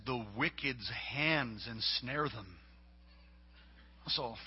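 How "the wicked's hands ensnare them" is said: put-on slow, earnest child reciting a verse; eight-year-old son. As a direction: recite it slowly like a small boy proud of his verse. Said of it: "He said".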